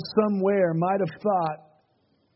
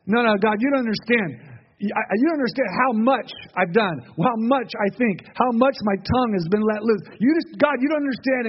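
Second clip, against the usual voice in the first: slightly raised, insistent objection; pleading protest; 4 semitones higher than usual. Acted. Sinner arguing with God over forgiveness, pleading protest. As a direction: act out someone pleading unworthiness.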